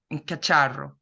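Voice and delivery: a light Italian lilt on Spanish cacharro; a hint of Italian accent, rolling the r in cacharro. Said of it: "I'm doing that Italian accent in Spanish".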